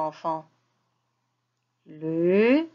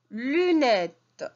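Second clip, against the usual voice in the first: emphatic repeat; 3 semitones higher than usual. Shown as a demonstration. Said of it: "teacher models word".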